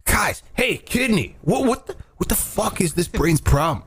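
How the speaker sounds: exasperated question to a colleague, hammed a little; mildly incredulous cartoon-organ chatter; mock organ banter. Voicing body organs arguing.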